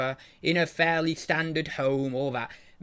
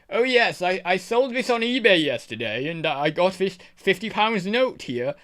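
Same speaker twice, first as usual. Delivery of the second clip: posh upper class gent; 3 semitones higher than usual. Retold or imitated. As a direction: play a toff showing off his cash. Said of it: "there's this guy saying".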